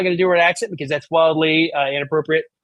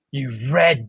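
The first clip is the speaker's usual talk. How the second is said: Doctor Emily Carter; 2 semitones lower, slower than usual. Acted. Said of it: "I'm just gonna do this as Doctor Emily Carter".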